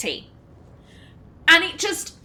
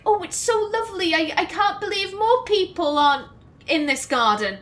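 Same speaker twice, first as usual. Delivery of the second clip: put-on higher, lilting Welsh accent, starting quickly; attempted Welsh accent; 4 semitones higher, faster than usual. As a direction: do an amateur Welsh impression, delighted. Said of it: "my attempt at a Welsh accent".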